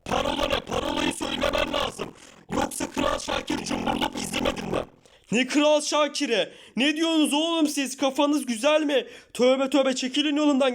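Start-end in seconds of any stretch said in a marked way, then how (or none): 0.1-4.8 deep guard voice. Acted. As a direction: sound like a machine-voiced gatekeeper. Guard asks password.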